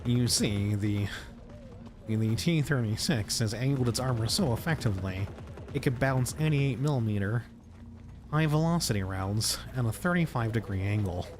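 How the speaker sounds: nerd voice. Acted. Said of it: "helps out my nerd voice".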